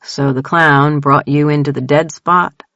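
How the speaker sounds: calm him down gently; calm and soothing. Acted. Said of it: "in a calm, soothing voice".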